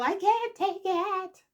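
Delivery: hammed-up overwhelmed plea to be left alone; distraught Summer. Summer begging Daniel to stop, high hammed-up distress.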